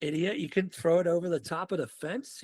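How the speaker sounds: dude, you idiot, over the fence; exasperated yell at a buddy. Retold or imitated. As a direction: chew out your giant idiot friend. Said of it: "And I was like".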